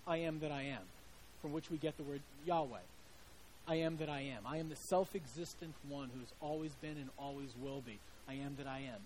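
quietly reverent I am; solemn divine voice. Acted. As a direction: intone it like a sacred name. God's name solemnly quoted.

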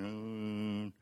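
soft, held whimper imitating crying; mock crying. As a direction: whimper quietly in pretend self-pity. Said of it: "in the corner, just a crying".

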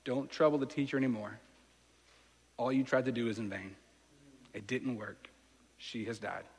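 soft, fading, heavy delivery; a messenger telling the father she is dead; grim news. Retold or imitated. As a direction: break it gently, sinking to almost nothing. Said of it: "somebody comes and says to you".

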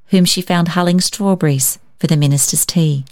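ordinary delivery

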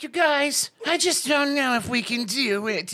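high, hammed-up New York accent; slow mock seventies New Yorker; bad New York accent. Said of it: "Italian and Jewish in nineteen seventies New York".

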